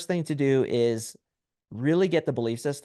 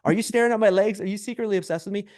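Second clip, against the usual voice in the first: higher-pitched teasing accusation; mock creeped-out; 6 semitones higher than usual. Man to friend who mocked his legs, mock creeped-out. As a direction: turn it back on him, playfully suspicious.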